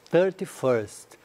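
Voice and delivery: thirty-first said slowly, every sound clear, ending in a crisp -first; slow ordinal demo. Shown as a demonstration. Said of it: "e a data sempre ordinal". (thirty-first bem devagar e claro)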